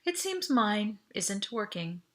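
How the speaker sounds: slow, carefully steady voice; forced calm. Acted. To Audrey, hiding panic with a slow calm voice. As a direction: hold it together, slow and even. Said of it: "as calmly as possible".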